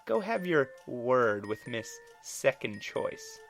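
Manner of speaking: scornful jab. Acted. Eleanor's face turned into a scowl.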